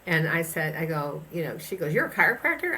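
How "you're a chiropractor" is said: high, loud astonished question; mock-gasping at the coincidence; retold surprise. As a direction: replay her amazement, pitched up and louder. New acquaintance retold, astonished.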